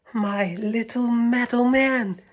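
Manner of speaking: put-on high, slow old woman's tender voice; lightly voiced old woman. Old woman waking to find her childhood toy, high and slow. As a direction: greet a lost treasure, slowly. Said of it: "she whispered".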